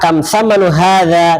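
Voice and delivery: "Kam thamanu hadza" with a clear th sound; teacher demonstrating a formal question; formal Arabic. Shown as a demonstration. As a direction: ask the price in textbook Arabic. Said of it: "Kita kan tanya harganya".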